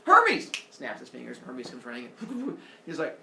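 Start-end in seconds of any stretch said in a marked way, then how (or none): 0.1-0.5 high, loud call for a servant. Acted. Zeus summons Hermes across Olympus with a loud call. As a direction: summon him across the hall.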